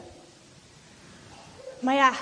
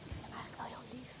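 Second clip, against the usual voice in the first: breathless whisper, quick; 5 semitones lower, 19 dB quieter, faster than usual. Acted. Girl secretly holding the doll, quick whisper. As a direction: hush it, as if nobody may hear.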